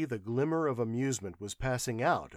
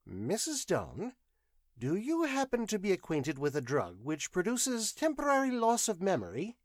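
velvety; 8 semitones higher than usual. Acted. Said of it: "his voice was more velvety than ever".

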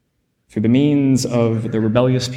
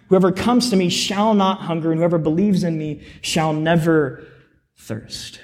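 preaching scripture; 6 semitones higher than usual. Acted. Reads scripture with rising force.

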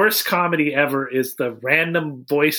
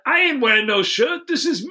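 mock cocky kid; 9 semitones higher than usual. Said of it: "Kid comes on set".

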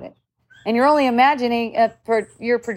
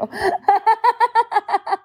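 high bright burst of laughter; real amused laugh; 10 semitones higher than usual. Real, not acted. Laughing at herself.

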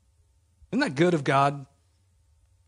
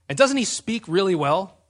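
mock exasperation, louder; angry God; 3 semitones higher, 5 dB louder than usual. God pointing Moses to his brother Aaron, mildly angry. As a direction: press the question with mild anger. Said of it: "God gets angry and says".

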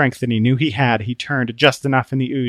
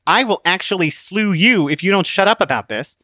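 higher-pitched, testy warning; irritated threat; 7 semitones higher, 4 dB louder than usual. Acted. Book fed up with the pronunciation debate, irritated. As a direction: threaten the bickerer, mildly exasperated.

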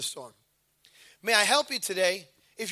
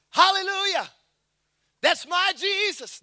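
mock praise; 7 semitones higher than usual. Imagined disciples praising.

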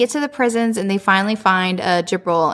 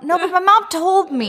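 put-on cheerful teen; 9 semitones higher than usual. Jibril voiced cheerful.

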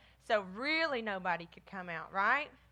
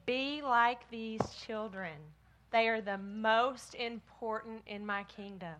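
put-on story reading to children. A narrator's reading.

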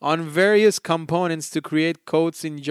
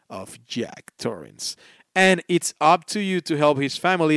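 mock spooky reading. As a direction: read it like a lightly spooky movie trailer. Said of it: "adding flavor to the games with my awful accent".

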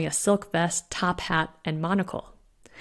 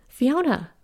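higher-pitched anxious call; alarmed call; 6 semitones higher than usual. A narrator's reading. Woman calls to friend who fell downstairs, alarmed.

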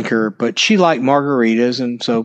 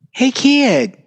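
high call across the patio; 13 semitones higher than usual. Retold or imitated. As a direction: call out to a singer from the next table. Girlfriend calls out to a singer.

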